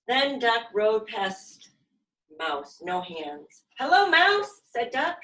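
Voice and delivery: put-on lively storybook reading for kids; reading to children. A narrator's reading. Yoga teacher reading a picture book to her class, lively. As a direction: read it out bright and animated for little ones.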